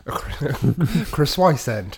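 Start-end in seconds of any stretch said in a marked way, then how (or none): 1.1-2.0 "croissant" as criss-sway-send; mangled croissant. Pretend. Co-host plays with the word, "croissant" garbled as criss-sway-send.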